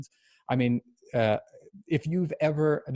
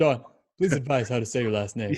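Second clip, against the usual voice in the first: playful imitation of a Russian accent; Pavel. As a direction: echo it in a mock Russian accent. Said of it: "I'm reading it in his Russian accent".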